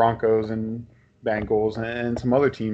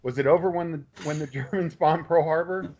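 Belushi rant; 5 semitones higher than usual. Retold or imitated. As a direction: fire up the room like a frat-house speech. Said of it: "Belushi from Animal House".

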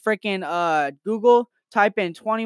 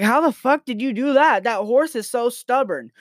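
higher-pitched acted disbelief; amazed bartender; 7 semitones higher than usual. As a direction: demand an answer in mock amazement. Amazed bartender quoted in joke.

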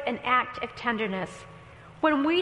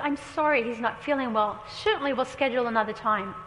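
smile in voice. Retold or imitated. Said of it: "I put a smile in my voice".

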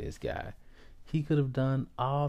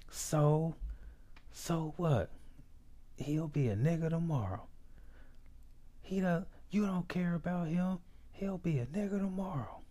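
imitating uncle's yell; 8 semitones higher, 3 dB quieter than usual. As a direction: act out the uncle yelling at a crowd, voice pitched high. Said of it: "he yells at the top of his lungs".

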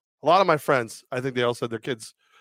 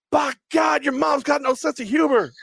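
mock proclamation; 13 semitones higher than usual. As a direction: bellow it like a proud declaration. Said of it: "you pick up Rex and go".

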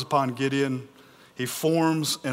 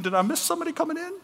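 very high, quick comic confusion; bewildered Gideon; 13 semitones higher, much faster than usual. Acted. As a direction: ask as if looking for someone behind you. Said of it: "Gideon standing there and looking around saying".

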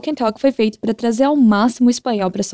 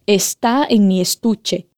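slow; slower than usual. Shown as a demonstration. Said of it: "Fala pra mim".

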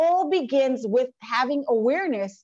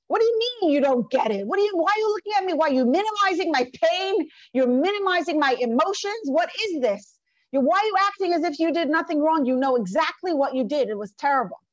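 mock angry accusation; 3 semitones higher than usual. Wife's escalating accusations continue.

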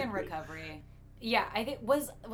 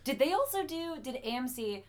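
losing voice, hoarse and strained; croaky after shouting all night; 2 semitones lower, 4 dB quieter than usual. Real, not acted. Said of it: "I'm literally losing my voice in real time".

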